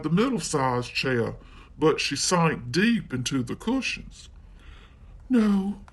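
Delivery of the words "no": put-on high little girl's "No"; a girl refusing, voiced higher; Goldilocks voice. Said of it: "she said".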